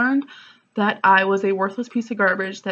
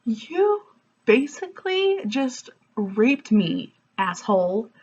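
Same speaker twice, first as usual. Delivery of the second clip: mock accusation; 3 semitones higher, slower than usual. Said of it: "And I'm just like".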